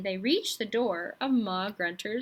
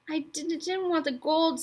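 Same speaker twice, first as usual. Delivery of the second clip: put-on higher stammering boy voice; 6 semitones higher than usual. A narrator's reading. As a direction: stumble over the first word. Roderick stammering defense.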